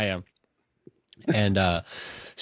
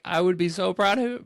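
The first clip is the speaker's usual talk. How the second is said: imitating Odysseus; 8 semitones higher than usual. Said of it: "he's like".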